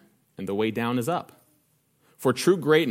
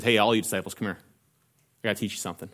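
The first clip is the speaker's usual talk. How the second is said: patient and kind; 5 semitones lower, 5 dB quieter, faster than usual. Retold or imitated. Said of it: "patiently and kindly".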